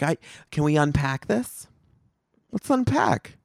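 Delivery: put-on rich white girl. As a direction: parody a rich girl saying unpack. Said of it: "rich white chicks now are like".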